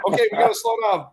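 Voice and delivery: very high, loud comic squeal; high-pitched storyteller's exclamation; retold calling out. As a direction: call a halt in a high mock panic. Retold driver calling a halt.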